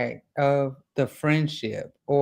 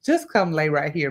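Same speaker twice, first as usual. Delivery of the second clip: soft comfort. Pretend. Host first offering the hero comfort, soft and plain. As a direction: murmur it gently. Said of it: "give him a hug".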